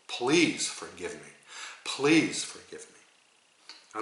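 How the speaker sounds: slow plea with a stretched "Please"; earnest plea. Shown as a demonstration. Teacher models asking for forgiveness, slow and earnest. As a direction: plead deliberately, drawing out the words.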